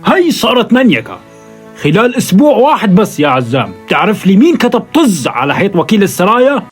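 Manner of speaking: loud furious demand; angry shouting. Acted. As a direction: bark it out in rage. Boss fumes at henchman.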